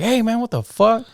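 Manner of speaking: high, drawn-out protest; mock indignation. Retells man turning round to complain.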